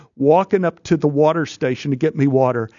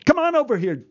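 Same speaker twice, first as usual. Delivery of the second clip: put-on high, pitched-up call to the boy; mock yell at boy; 11 semitones higher, faster than usual. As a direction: call the kid over, voice jumping up. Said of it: "the A D yells at the boy".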